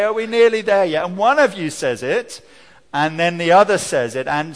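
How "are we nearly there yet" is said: put-on whiny child. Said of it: "Yeah, you say".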